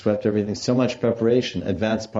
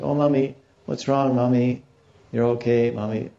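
lightly voiced worried little girl; raised pitch, gently asking after mommy; concerned daughter; 4 semitones higher than usual. Daughter finds mother crying, lightly acted concern.

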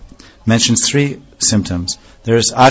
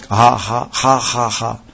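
choked gasps; 4 dB quieter, slower than usual. Shown as a demonstration. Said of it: "gadgara means choking of the voice".

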